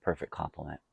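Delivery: talking through a mouthful of pizza; chewing while talking. Real, not acted. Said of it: "Excuse my eating".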